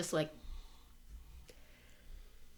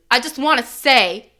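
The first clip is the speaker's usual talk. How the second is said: pushy, overly forceful reassurance; too aggressive. Pretend. Player character overdoing her defense of Danny, too aggressive. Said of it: "a little too aggressively".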